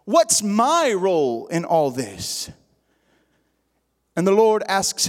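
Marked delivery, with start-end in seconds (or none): 0.1-2.5 acting out a testing, goading question; taunting. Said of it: "he was taunting him".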